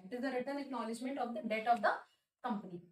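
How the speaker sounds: very slow, each word separate; slow dictation. Shown as a demonstration. Teacher to students, dictating a definition very slowly. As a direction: dictate it so they can copy it down.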